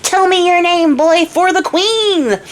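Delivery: high, drawn-out mock demand; hammed-up interrogation, each phrase stretched; accosting. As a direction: hail a stranger on the queen's orders. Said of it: "they're accosting innocent men in the streets".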